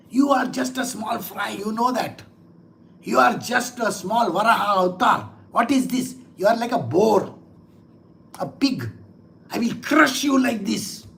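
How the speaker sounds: mildly acted scorn and threat; angry demon. Demon threatening the boar avatar, mildly angry. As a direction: belittle the opponent with a touch of anger. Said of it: "the demon gets very angry".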